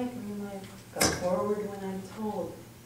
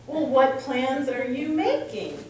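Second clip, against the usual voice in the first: mock British accent, louder and slow; 3 semitones higher, 6 dB louder, slower than usual. Friend Neil grilling the speaker about plans, mock British accent. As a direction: imitate a probing British friend in his accent. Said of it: "in his British accent".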